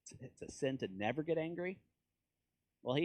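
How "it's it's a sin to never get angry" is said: taken aback. Retold or imitated. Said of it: "I'm like".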